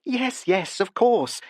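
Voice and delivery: high, quick and flustered; hasty correction. A narrator's reading. Barbara hastily corrects herself, high and flustered. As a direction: cover yourself in a hurry. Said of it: "she corrected herself hastily".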